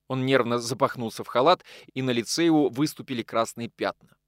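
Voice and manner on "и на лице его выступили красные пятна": plain reading voice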